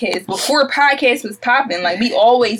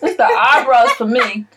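laughing. Real, not acted. Laughing at the eyebrows.

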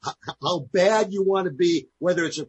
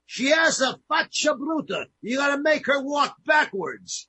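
mock insult; 7 semitones higher than usual.

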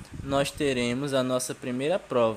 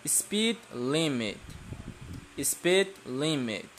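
to someone hard of hearing; 6 dB quieter, much slower than usual. Shown as a demonstration. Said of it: "Não estou ouvindo vocês repetirem".

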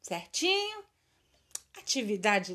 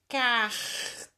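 "Carteira" slowly broken into syllables. Shown as a demonstration. Teacher dictating to pupils who look for digraphs, syllable by syllable. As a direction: stretch each syllable, pausing between them. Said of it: "Separa as sílabas".

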